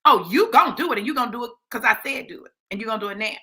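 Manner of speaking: lightly acted sassy insistence. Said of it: "he gets sassy right back".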